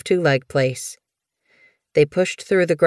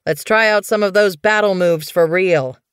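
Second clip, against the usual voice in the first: raised voice, rallying an apprentice; calling back; 3 semitones higher, 4 dB louder than usual. Acted. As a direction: keep calling back over your shoulder. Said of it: "he called over his shoulder".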